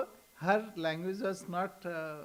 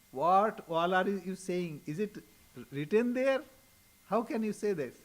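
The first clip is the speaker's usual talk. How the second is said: mildly incredulous questioning, pitched up at the ends; challenging; 2 semitones higher, 5 dB louder than usual. Retold or imitated. Latu Maharaj disputing Swamiji's history lesson, challenging. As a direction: push back with raised, disbelieving questions.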